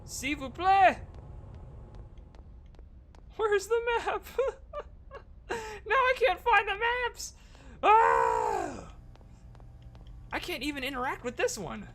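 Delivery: high, hammed-up French accent wailing; French chef. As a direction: wail in a comic French accent. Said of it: "talking in different accents".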